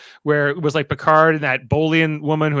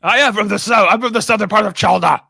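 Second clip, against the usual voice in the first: mock Southern accent, starting high and loud; imitation Southern accent, easing off at the end; 5 semitones higher, 5 dB louder than usual. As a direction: play up a comic Southern accent. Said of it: "use a Southern accent".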